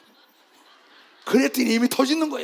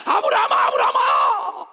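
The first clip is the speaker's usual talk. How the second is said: voice of God; 8 semitones higher, 6 dB louder than usual. Retold or imitated. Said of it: "이러잖아".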